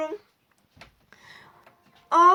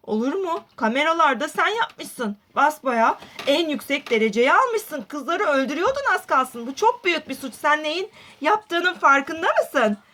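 scolding police officer; 4 semitones lower than usual. Acted. Polis azarlıyor, alçak ses.

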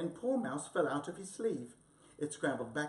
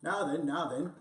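stern policeman; 2 semitones higher, 7 dB louder than usual. Acted. Policeman stops Wombat.

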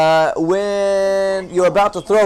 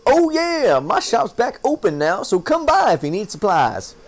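lightly voiced friendly shopkeeper; a hint of folksy sailor; 3 semitones higher than usual. Shopkeeper inviting the player to come by, light folksy voice. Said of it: "talk like that guy".

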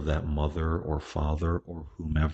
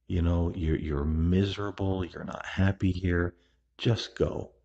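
higher-pitched, pleading encouragement; urging grandmother on; 3 semitones higher than usual. Retold or imitated. To grandmother in hospital, urging her to go with John, higher and earnest. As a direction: coax her to let go and leave.

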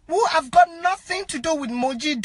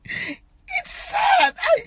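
real crying; 12 semitones higher, much slower than usual. Real, not acted. Mourner overcome by the sad news, crying. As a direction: break into tears on the words. Distraught over friend's death.

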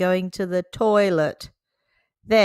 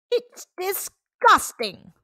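slow, much higher, drawn-out disgust; 12 semitones higher, slower than usual. Acted. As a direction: stretch out the word in revulsion. Doctor Dog scolds the parents.

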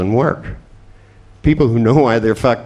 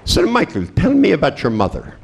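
a lightly voiced, higher psychiatrist probing; mock psychiatrist; 5 semitones higher than usual. A speaker mocking psychiatrists asking Michael about his mother, lightly voiced. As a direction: play the shrink, lightly and knowingly. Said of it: "They'd go".

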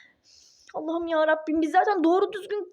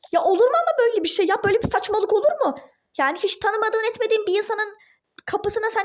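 outraged outburst; 5 semitones higher than usual. Acted. Duru outraged at abandoned child.

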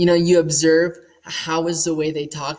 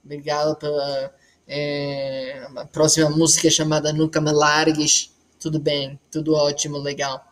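speaking Portuguese as a demo; quick sample of spoken Portuguese. Shown as a demonstration. Showing the interviewer some Portuguese, speaking Portuguese. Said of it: "That's Portuguese".

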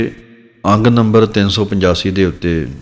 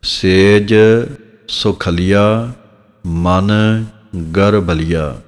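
slow recitation; much slower than usual. Shown as a demonstration. Teacher recites corrected line in pieces.

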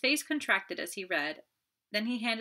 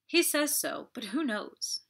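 doubtful retort; 8 semitones higher, 4 dB louder, slower than usual. Acted. Marthe doubts Stenord.

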